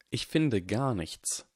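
slow, measured voice from the shadows; cloaked stranger calmly answering Draco; mysterious figure. Acted. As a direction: speak each word deliberately, unhurried. Shadowed figure speaks slowly.

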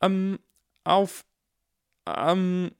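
stifling laughter. A narrator's reading. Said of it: "das Sprechen schwer zu fallen".

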